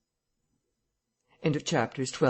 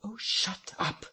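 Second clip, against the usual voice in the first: vigorous; 7 semitones higher, 5 dB quieter, slower than usual. A narrator's reading. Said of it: "with sudden amazing vigour".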